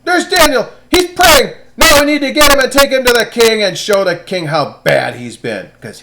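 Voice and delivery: high, loud gleeful tattling; shrill sneaky schemers gloating over their catch; scheming tattletales. Acted. Plotters pointing at praying Daniel, loud and gleeful. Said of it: "and they said".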